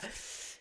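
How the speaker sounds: short soft laugh. Real, not acted. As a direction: laugh quietly to yourself. Laughs while telling the story.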